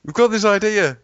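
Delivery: high, loud, eager sales pitch; mock movie pitch. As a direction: pitch it to Hollywood with mock excitement.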